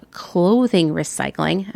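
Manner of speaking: "clothing recycling" slowed, as if in quotes; slow air quotes on "clothing recycling". Real, not acted. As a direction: set "clothing recycling" apart slowly, sceptically. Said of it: "Imagine that I just said that in quotes".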